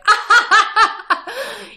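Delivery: bursting into a high cackle; a witchy cackle at the door; sudden loud high cackle; high cackling laugh. Retold or imitated. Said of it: "cracking up, cackling".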